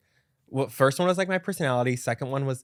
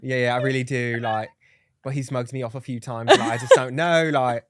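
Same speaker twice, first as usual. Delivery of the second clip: put-on British accent; 5 dB louder than usual. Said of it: "talking a British accent".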